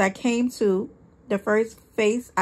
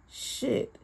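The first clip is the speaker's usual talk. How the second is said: whispered curse; 4 semitones higher, 8 dB quieter than usual. A narrator's reading. Sees incriminating card.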